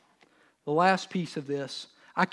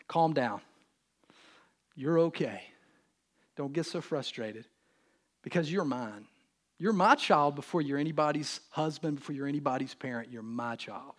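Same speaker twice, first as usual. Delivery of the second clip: calm reassurance. Retold or imitated. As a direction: soothe him like a loving father. God's voice answering in prayer.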